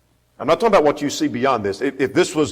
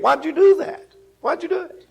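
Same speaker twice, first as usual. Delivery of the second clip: much higher mocking scold; high exasperated angel; mock rebuke. Voices angel rebuking people.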